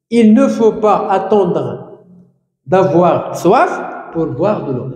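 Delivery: slow, with ne lifted and pas stretched; stress on ne pas. Shown as a demonstration. Teacher dictates the negative sentence, stressing ne pas. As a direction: lean on the ne pas so pupils hear it. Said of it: "La forme négative, ici, ne pas".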